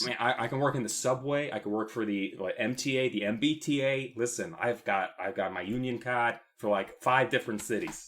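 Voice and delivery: lightly put-on Boston city guy; city accent. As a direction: union worker with a mashed city accent. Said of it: "my Boston accent".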